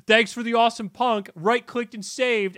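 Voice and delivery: high-pitched mock gotcha reply; gloating troll. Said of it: "army of trolls that think they have this great gotcha".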